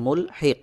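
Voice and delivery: মুলহিক ending on a bounced, vowelless q; qalqalah stop. Shown as a demonstration. Teacher repeating the correct pausal pronunciation for learners, qalqalah stop. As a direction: close মুলহিক with a short echo on the q. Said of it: "কফকে কলকলাহ করে উচ্চারণ করে পড়তে হবে".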